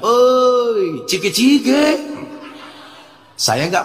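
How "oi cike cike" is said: raised, lightly voiced old man calling; man at the hotel, proud and a bit high; proud greeting. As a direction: call out proudly to the preacher. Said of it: "Dia bilang dengan bangganya".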